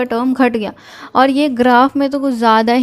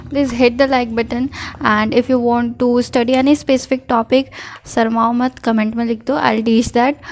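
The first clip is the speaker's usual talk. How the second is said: unhurried video outro, each phrase drawn out; slow outro sign-off; much slower than usual. Acted. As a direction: wind the video down slowly for viewers. (धीमा, आराम से video का समापन)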